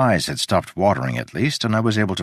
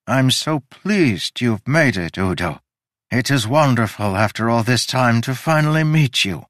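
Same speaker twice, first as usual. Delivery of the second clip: slightly raised, heartfelt delight; delighted welcome; 4 semitones higher, 3 dB louder than usual. Acted. Host holding the visitor's hand, gently delighted. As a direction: savour meeting someone long awaited.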